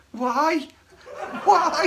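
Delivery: a hint of a pained high plea; imitated plea. Bandmate voicing the hurt singer's silent look, high and pained. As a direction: squeak it out, pleading and laughing. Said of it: "as if to say".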